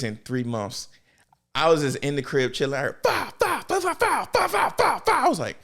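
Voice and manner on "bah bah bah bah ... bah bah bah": high rapid bah bah gunfire noises; mock gunfire sounds; imitated gunshots. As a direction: mimic a burst of gunshots. Imitating gunshots heard outside.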